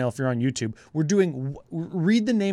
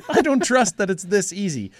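laughing disbelief; 5 semitones higher, 4 dB louder than usual. Retold or imitated. Laughing retold quote.

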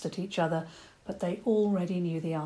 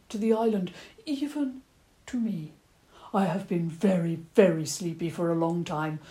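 a fussy old badger asking politely; 3 semitones higher, 4 dB louder than usual. Old badger asking the children for an apple, stammering. Badger tells island history.

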